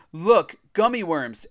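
high, loud, slow cry of discovery. A narrator's reading. Alex spots candy in the trunk, crying out. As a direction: cry out at a find. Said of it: "Alex cried".

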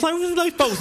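lightly voiced tipsy confusion; mock puzzled. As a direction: act baffled by the bottles. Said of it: "I was like".

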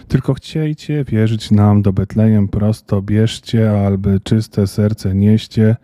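slow, drawn-out verse recital; slow schoolchild reciting; laboured recitation. A narrator's reading. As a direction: recite like a child labouring through a poem. Child labours through memorised verse.

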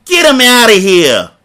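high, loud, slow shouted command; barked order. Shown as a demonstration. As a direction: bellow the order at the cops. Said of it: "I'm gonna say that again".

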